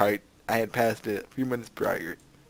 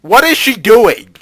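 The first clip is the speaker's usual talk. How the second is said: high, loud, slow disbelief; incredulous cry; 7 semitones higher, 14 dB louder, slower than usual. Real, not acted. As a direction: gasp it out in disbelief. Reacting to character pose.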